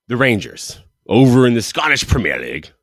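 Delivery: hammed-up, failed attempt at a Scottish accent; terrible mock-Scottish delivery; bad Scottish accent. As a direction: have a clumsy go at sounding Scottish. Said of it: "That wasn't a Scottish accent. That was terrible".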